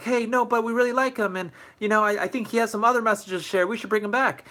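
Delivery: high-pitched, pleading student voice; insistent students. Pretend. Whole school urging staff to invite the speaker, high and insistent. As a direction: push back eagerly, pitched well up.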